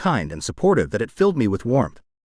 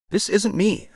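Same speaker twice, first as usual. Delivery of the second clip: sobbing plea; 8 semitones higher, slower than usual. A narrator's reading. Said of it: "I implored as my convulsions robbed me of speech".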